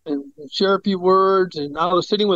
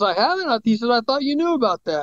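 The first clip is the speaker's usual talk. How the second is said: higher-pitched, caught off guard; surprised doctor; 5 semitones higher, faster than usual. Retold or imitated. Doctor thought the patient already knew, surprised.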